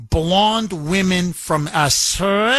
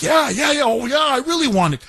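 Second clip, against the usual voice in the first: higher, quick, hammed-up eagerness; a lightly voiced dictator, too excited; mock eager Kim; 7 semitones higher, faster than usual. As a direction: play him as a drooling fan, over-keen. Kim eagerly replies, imitated.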